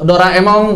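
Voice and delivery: "Doraemon" ending in ng; Japanese final ng. Shown as a demonstration. Teacher giving a Japanese example, final ng. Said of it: "misalnya begitu".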